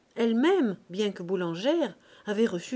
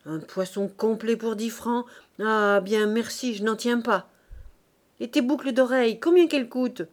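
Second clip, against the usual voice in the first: scornful, raised-voice fishwife abuse; angry, jeering taunts; furious; 2 semitones higher, 6 dB louder than usual. Acted. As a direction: heap scorn on the maid. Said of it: "furibondes, les poings en avant, se soulagèrent".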